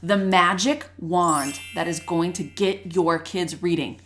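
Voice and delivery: oversell it with a touch of sarcasm; sarcastic. Real, not acted. Host promising parents a magic fix, lightly sarcastic. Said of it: "If you don't hear the sarcasm in my voice".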